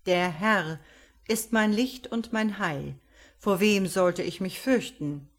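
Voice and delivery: a hint of a measured pastor reading scripture; solemn sermon. The pastor eulogises Ruth, lightly voiced solemn sermon.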